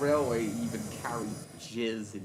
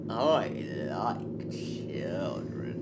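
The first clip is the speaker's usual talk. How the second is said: slow creepy voice; 5 semitones lower, much slower than usual. Pretend. Creepy joke line.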